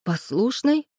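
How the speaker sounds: high, incredulous blurted questions; outraged echo of his words, pitched high; indignant outburst. A narrator's reading. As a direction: fire the words back in disbelief. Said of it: "возмущённо выпалила я".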